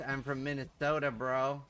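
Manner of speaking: put-on casual American bro accent. Streamer fooling chat about origins, American accent. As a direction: pass yourself off as American. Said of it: "There's so many crazy American accents".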